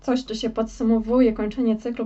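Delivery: talking through hiccups; words broken by hiccups. Real, not acted. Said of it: "mam czkawkę akurat na barana".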